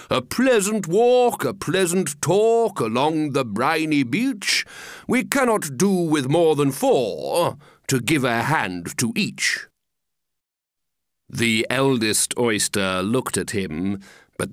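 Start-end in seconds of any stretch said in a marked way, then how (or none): 0.1-9.7 lightly coaxing, swooping invitation; beseeching. Acted. Walrus tempts oysters to join the walk, beseeching. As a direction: coax them with lilting phrases. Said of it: "the walrus did beseech".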